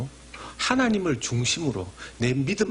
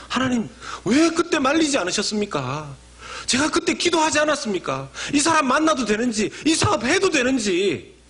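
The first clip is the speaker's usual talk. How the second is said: high, loud protest to God; aggrieved believer's loud complaint; whiny complaint; 10 semitones higher, 3 dB louder than usual. Retold or imitated. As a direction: plead and accuse at once.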